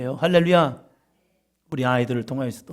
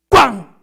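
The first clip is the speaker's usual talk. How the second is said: sudden loud, higher-pitched "bang"; booming thunderclap imitation; 7 semitones higher, 12 dB louder, much slower than usual. Shown as a demonstration. Preacher imitating thunder for the congregation, sudden boom. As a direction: imitate thunder crashing in one burst.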